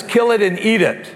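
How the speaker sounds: said through a laugh; amused mock decree; laughing God's command. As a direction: command with a chuckle. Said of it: "God says".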